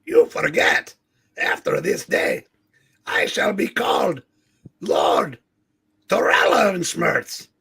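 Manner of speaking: pompous villain. Acted. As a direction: declare it like an arrogant warlord. Reads villain Tarala's lines.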